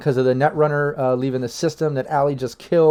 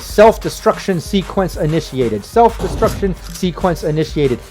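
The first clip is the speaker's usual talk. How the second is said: robot voice; 4 semitones higher than usual. Acted. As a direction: read it like a cold robot alarm. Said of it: "ominous, like, robotic voice".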